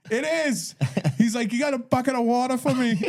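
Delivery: high, laughing stab at a brogue; Irish man imitated badly, high and laughing; bad Irish accent. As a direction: ham up the Irish lilt through a laugh. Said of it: "I'm doing terrible at his accent".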